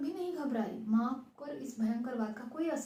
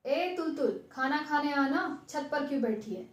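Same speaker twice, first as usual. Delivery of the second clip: calling out; 3 semitones higher than usual. Acted. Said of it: "नीचे से भैया की आवाज सुनाई दी".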